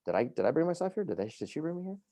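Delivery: high-pitched puzzled self-questioning; retold confusion. Patient retelling waking up at health center, confused. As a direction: voice climbs as if working it out.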